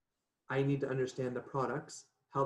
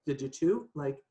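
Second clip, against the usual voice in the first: joking disbelief; 4 semitones higher, 5 dB louder than usual. Retold or imitated. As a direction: pitch leaping up in mock bewilderment. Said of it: "making kind of a little bit of a joke".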